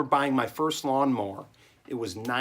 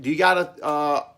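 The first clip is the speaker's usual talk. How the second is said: grandpa quizzing; 6 semitones higher, 4 dB louder than usual. Retold or imitated. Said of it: "he goes".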